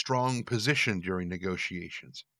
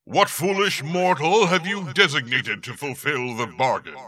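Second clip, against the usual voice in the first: booming demon lord; 6 semitones higher, 7 dB louder than usual. Acted. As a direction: menace her with a rolled R. Demon demands the sacrifice.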